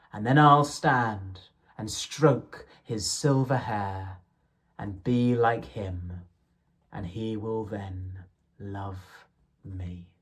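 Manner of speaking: measured, lilting verse reading; poem recitation. Acted. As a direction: read the poem with gentle rhythm. Reciting Blake poems aloud.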